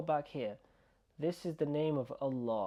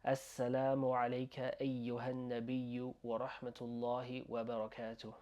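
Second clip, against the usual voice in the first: connected run, less emphasized; quick recitation. Shown as a demonstration. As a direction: recite it straight through without stretching. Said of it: "when you say it quick".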